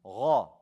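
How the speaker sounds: غا with a full, throaty gh and dark vowel; heavy ghain. Shown as a demonstration. Teacher demonstrates the ghain, heavy غا. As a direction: make the غ in غا thick and heavy. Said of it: "It's heavy".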